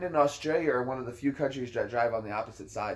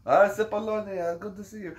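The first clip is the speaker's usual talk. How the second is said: high put-on voice, softening at the end; imitated warm greeting; 8 semitones higher than usual. Interpreter greets an old friend, imitated delight. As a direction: greet him higher, mimicking delight.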